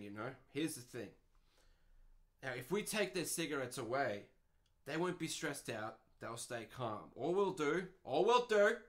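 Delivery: lightly voiced bumbling manager; mock manager. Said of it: "sitting there like".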